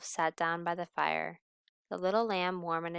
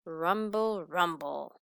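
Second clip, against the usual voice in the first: tummy rumble; slower than usual. Acted. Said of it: "Her tummy rumbled".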